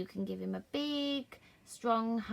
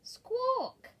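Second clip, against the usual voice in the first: high, loud squawking parrot call; shrill bird squawk; 5 dB louder than usual. Acted. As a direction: screech it like a parrot. Parrot squawk in read story.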